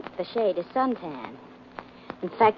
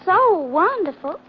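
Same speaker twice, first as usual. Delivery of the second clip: high, gushing Southern belle imitation; mock Southern accent; 8 semitones higher than usual. Mary mimicking Georgia to needle Blackie, mock Southern accent. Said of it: "do you have to like me with an accent?".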